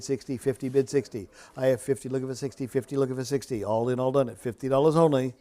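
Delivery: rhythmic auction chant; auctioneer. Real, not acted. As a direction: rattle off the bids in a steady chant. Live auction bid calling.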